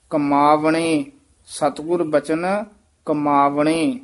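ਕਮਾਵਣੇ with a distinct ਵ sound; clear v in ਕਮਾਵਣੇ. Shown as a demonstration. Teacher shows the v sound in ਕਮਾਵਣੇ, careful. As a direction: give the ਵ in ਕਮਾਵਣੇ its full value. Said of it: "ਸ਼ੁੱਧ ਉਚਾਰਨ ਕਰਨਾ ਹੈ".

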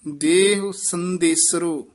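ਦੇਹ ਸੰਦੇਸਰੋ, then a full rest; rest after. Shown as a demonstration. Teacher shows the rest after ਦੇਹ ਸੰਦੇਸਰੋ. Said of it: "ਇੱਥੇ ਵਿਸਰਾਮ ਹੈ".

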